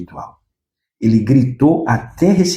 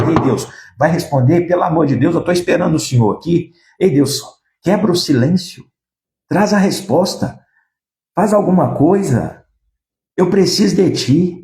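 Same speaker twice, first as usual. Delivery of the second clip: higher, pleading call to God; a preacher acting out a desperate plea, raised pitch; pleading cry to God; 5 semitones higher than usual. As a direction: beg God to break the silence. Preacher voicing David's plea to God.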